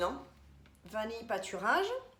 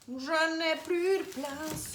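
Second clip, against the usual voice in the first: « Je n'ai plus de place » stretched slow, high and louder; drawn-out wail; 6 semitones higher, 4 dB louder, much slower than usual. Shown as a demonstration. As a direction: moan it like a comic lament. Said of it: "répète autrement". (plainte lente, aiguë et plus forte)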